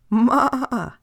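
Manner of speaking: a little goat bleating up the slope; high calling out. Acted. Little goat calling up the mountain, high and loud.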